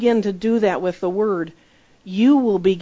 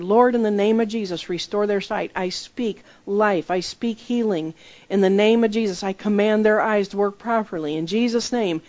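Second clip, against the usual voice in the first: healing prayer. Acted. Acted healing prayer over blind person.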